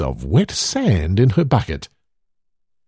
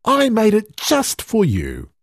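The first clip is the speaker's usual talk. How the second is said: Hedda's voice; 9 semitones higher than usual. A narrator's reading. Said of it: "said Hedda".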